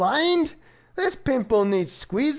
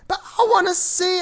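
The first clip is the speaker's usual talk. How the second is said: eager whine; 7 semitones higher, faster than usual. Acted. Kid pleading in story.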